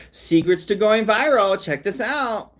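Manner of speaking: mocking a clickbait reaction channel; hyped youtuber. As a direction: sell the clip like a hype host. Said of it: "be like".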